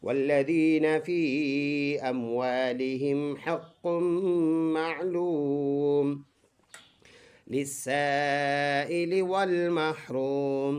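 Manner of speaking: melodic tajweed recitation; teacher models the verse in recitation; Quran recitation. Shown as a demonstration. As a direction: chant the verse smoothly. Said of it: "فل آیت ایسے پڑھیں گے".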